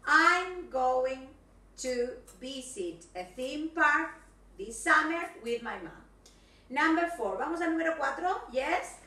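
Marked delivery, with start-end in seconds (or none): 0.1-6.0 I'm going to visit a theme park read slowly and loud; a slow, deliberate big reveal. Shown as a demonstration. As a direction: reveal the hidden message slowly. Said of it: "Ese era el mensaje escondido".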